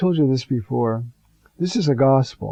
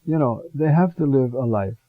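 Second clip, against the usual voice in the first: calm Lord's voice. Retold or imitated. The Lord calmly answering the worried priest in the car, gentle and calm. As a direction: speak as a kindly Lord, unhurried. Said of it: "very calmly said".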